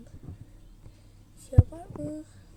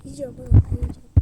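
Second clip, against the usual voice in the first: I'm eating it, yelled; loud insistent yell; 12 dB louder, faster than usual. Real, not acted. Child yelling at a friend over the sweets, loud and stubborn.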